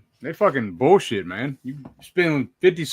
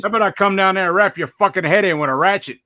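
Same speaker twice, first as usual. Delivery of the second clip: lightly done Aussie threat, fast and loud; Aussie accent, fast and pushy; 6 semitones higher, 6 dB louder, faster than usual. Retold or imitated. Friend quoting a Jerky Boys prank call, a touch of Aussie accent. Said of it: "that Aussie part is fantastic".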